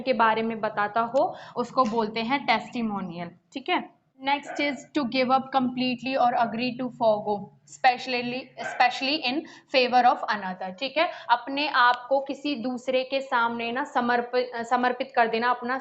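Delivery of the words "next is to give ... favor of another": reading an English definition slowly and evenly; slow dictation read. Shown as a demonstration. Teacher reading a definition aloud to students, slow and even. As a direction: spell it out word by word for students.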